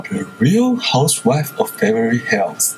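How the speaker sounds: slow, posh-leaning British accent. Shown as a demonstration. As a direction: read the title with a British accent. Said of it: "为什么有点英式？".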